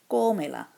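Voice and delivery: cómela loud, first syllable punched; counted stress. Shown as a demonstration. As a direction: hit the syllable counted three from the end in cómela. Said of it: "So one, two, three".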